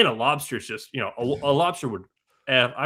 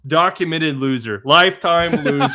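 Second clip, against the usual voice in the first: quoting a tweet; 4 dB louder than usual. Retold or imitated. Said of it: "He said".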